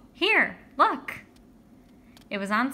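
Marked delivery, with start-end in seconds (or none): 0.1-1.2 much higher, louder call across the street; excited call. Acted. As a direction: call him over, thrilled. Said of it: "Then Judy called".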